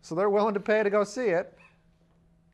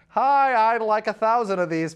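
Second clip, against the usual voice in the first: bright, louder, higher order; eager customer; 3 semitones higher, 6 dB louder than usual. Retold or imitated. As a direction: chirp an order to the printer.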